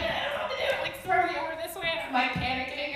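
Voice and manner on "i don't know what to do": panicked murmur. Retold or imitated.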